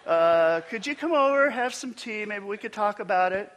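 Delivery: hammed-up tender phone call; mock emotional guy. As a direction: play a man gushing about feelings, tongue in cheek. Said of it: "never had a guy call me on the phone and go".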